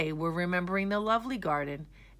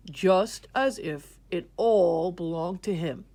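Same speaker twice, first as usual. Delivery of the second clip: 1 wise king speaking; 2 semitones higher, 4 dB louder than usual. Acted. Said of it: "Then the king spoke".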